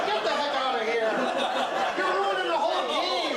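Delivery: high-pitched comic indignation; mock outrage. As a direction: pretend to be appalled and kick them out. Mock outrage at the woman being present.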